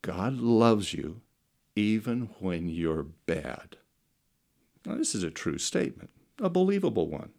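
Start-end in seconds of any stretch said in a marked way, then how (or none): 0.0-3.8 tender. Shown as a demonstration. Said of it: "You ready?".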